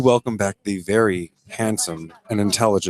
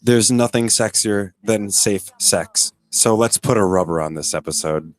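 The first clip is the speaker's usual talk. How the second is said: flirty. Acted. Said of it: "Were you hitting on him in that?".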